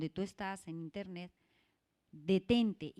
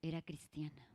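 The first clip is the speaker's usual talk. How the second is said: unvoiced whisper, softer; dramatic whispered reveal; 5 semitones lower, 8 dB quieter than usual. Real, not acted. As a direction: whisper it like a shocking secret. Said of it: "¿Saben cuál es la noticia?".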